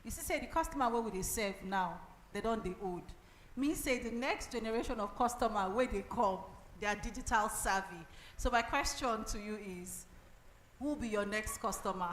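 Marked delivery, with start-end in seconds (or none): 0.1-8.1 switching into Nigerian Pidgin; closing word in Pidgin English. Real, not acted. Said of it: "I'll say it in pidgin". 10.8-12.1 Pidgin question to the room; Nigerian Pidgin. Real, not acted. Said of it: "I'll say it in pidgin".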